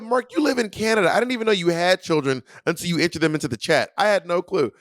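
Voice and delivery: high-pitched retold disbelief; incredulous comeback. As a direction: act baffled and protest your innocence.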